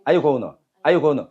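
"gonna" reduced to "go-nuh", no T; American-style gonna. Shown as a demonstration. Teacher repeats the American way for students, reduced gonna. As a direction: drill "Are you gonna" as one blended phrase. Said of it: "미국식은".

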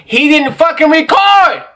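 exasperated outburst. Real, not acted. Exasperated about cameraman's failed recording.

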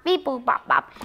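beep-boop robot noises; quiet little robot beeping. Pretend. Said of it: "safety goggles for a robot".

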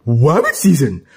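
"Rabbit" said as "wabbit", pitched low; low cartoon duck with R turned to W in "Rabbit"; cartoon speech impediment. Cuphead playing Daffy's role in an argument, "Rabbit" as "wabbit". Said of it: "you were so off the speech impediment".

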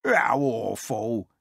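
slow, drawn-out mild whimper; a touch of whimpering pig. Acted. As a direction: draw it out in understated dismay. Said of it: "whimpered Mister Cookie".

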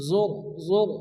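"জোর" with full, thick "র"; teacher's deliberate "জোর"; heavy R. Shown as a demonstration. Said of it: "পুর করে অর্থাৎ মোটা করে".

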